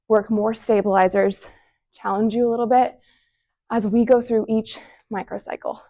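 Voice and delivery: out of breath from exercising; puffing between phrases; heavy breathing. Real, not acted. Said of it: "Whew, I'm breathing heavy".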